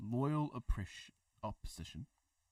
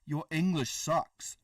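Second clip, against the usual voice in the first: teasing jab; 6 semitones higher, 7 dB louder, slower than usual. Pretend. Teasing a chat question.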